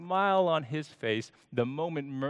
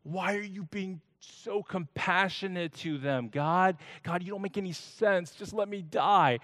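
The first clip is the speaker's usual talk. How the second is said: higher, exasperated whine at God; disgusted complaint; 5 semitones higher than usual. Acted. Jonah scolds God for mercy to the Ninevites, disgusted. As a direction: sound fed up and disgusted. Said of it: "Jonah is disgusted".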